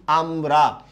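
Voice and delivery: আমরা split in two, আম, রা; syllable by syllable. Shown as a demonstration. Teacher quizzing students on stops, splitting আমরা in two. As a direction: pause between the syllables of আমরা. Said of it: "আমরা এখানে কয়বার থামছি".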